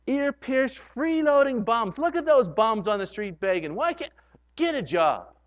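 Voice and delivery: mock disdain with a loud opening; a hint of a contemptuous churchgoer; scornful judgment. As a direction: sneer at the beggars. Judgmental Christian scorning street people.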